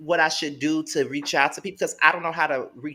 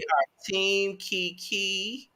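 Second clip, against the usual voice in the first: drawn-out declaration; 5 semitones higher, 4 dB quieter, much slower than usual. Real, not acted. Drawn-out declaration over co-host.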